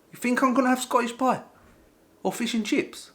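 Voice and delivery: high, loud, squawking indignation; hammed-up disbelief at being offered such food; mock outrage. New Scot rejects dinner suggestions in shop, mock outraged shout.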